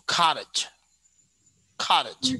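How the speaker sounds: American "cottage", T softened towards D; American pronunciation. Shown as a demonstration. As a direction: say "cottage" American-style with a flapped T. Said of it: "get surprised".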